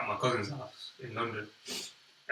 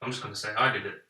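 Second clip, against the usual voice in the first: softer, retold private thought; resigned inner voice; 5 dB quieter than usual. Kid deciding in his head to take the blame, quietly resigned. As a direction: say it to yourself, giving in. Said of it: "And then in my head".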